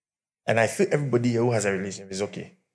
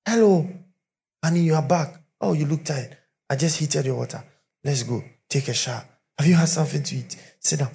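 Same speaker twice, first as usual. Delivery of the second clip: sweet welcome; 2 semitones higher than usual. Retold or imitated. Preacher voicing a doting wife welcoming her husband home. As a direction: coo like a devoted wife.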